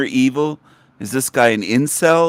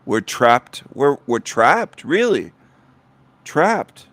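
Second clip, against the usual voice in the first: mocking imitation; slower than usual. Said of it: "Listen to him".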